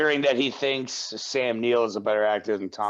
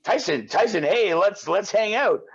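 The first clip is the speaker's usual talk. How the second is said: higher-pitched mock invitation; eager friend inviting; 5 semitones higher than usual. Friend asks Tyson to hang out, mock eager invitation. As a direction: play an eager pal asking to hang out. Voices someone inviting him out.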